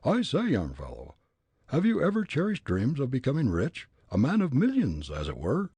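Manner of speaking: put-on loud, high, ranting old gent; furious old man. Old gent declaring himself mad to Fritz, blustering. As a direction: rage like a riled Leadville miner.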